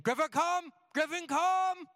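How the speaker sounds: high, loud sing-song call to a dog; pet-owner calling tone. Retold or imitated. Pet owner calling his wandering dog home, high and loud. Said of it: "a certain tone when we call for our animals".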